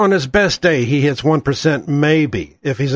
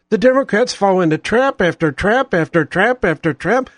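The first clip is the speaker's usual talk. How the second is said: breathless from ranting; running short of breath; 2 semitones higher than usual. Real, not acted. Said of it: "I'm running out of breath".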